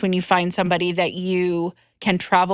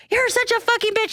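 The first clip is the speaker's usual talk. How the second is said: high snippy mock insult. Jennifer insulting her cousin under her breath, high snippy mock. Retold quarrel, muttered insult.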